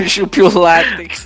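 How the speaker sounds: slurring, slow and sleepy. Real, not acted. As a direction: speak drowsy and tipsy. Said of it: "eu tô podre de bêbado de sono".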